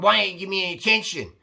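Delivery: imitating a neglected girlfriend nagging; mock nagging. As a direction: nag him for attention. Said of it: "that's probably why she's nagging you".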